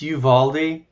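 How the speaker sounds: "Uvalde" begun like the word you; YOU-start pronunciation. Shown as a demonstration. Explaining how the news pronounces the town, YOU-start pronunciation. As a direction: say "Uvalde" as you-VAL-dee. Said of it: "They pronounce it".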